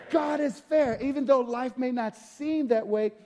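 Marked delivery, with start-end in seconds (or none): 0.1-1.0 call and response. Shown as a demonstration. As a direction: proclaim «God is fair» to the congregation. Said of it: "somebody say".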